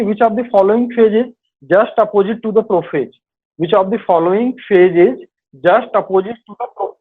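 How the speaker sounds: reading the question out slowly; dictating a quiz question. Acted. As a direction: spell out each word for students. Reads quiz question twice slowly.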